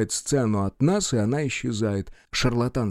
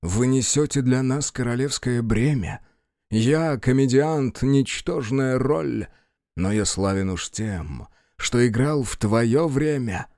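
solemn, slow verse declamation; slow address to a king in verse; changed intonation. Acted. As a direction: turn suddenly to measured, stately recitation. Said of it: "Мольер резко меняет интонацию".

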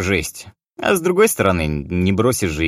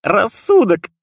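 punchline delivery; 13 semitones higher, 5 dB louder, slower than usual. A narrator's reading. Guard's punchline.

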